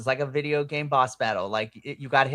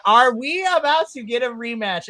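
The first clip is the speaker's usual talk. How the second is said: higher, louder thrilled question; excited disbelief; 7 semitones higher, 6 dB louder than usual. Retold or imitated. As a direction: ask it bursting with hope. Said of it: "I was like".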